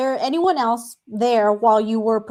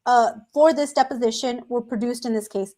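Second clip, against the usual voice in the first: lip sticking to braces. Real, not acted. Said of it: "my lip sticks to my braces".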